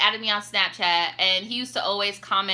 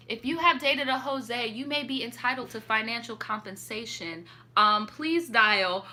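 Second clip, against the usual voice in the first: mock ad; 3 dB quieter than usual. Parody lawyer ad.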